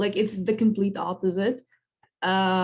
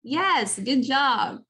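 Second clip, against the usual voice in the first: pleased praise; 4 semitones higher, much slower than usual. Real, not acted. Praising student's try.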